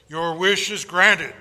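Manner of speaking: slow, loud pronouncement; voice of God. Acted. God answering the atheist with slow authority. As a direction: grant the wish grandly.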